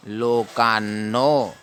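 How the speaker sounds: लोकान्नो drawn out, न doubled and held; half न sounded. Shown as a demonstration. Teacher modelling the half न, slow and deliberate. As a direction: say लोकान्नो slowly as लो-कान्-नो. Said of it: "लोकान्नो पढ़ना है".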